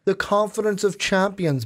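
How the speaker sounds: hint of a British accent. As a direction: put on a light British lilt. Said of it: "like, a British accent on it".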